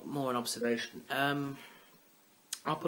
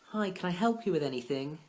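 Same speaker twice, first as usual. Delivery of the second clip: mock cheerful; 6 semitones higher than usual. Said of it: "forced joy".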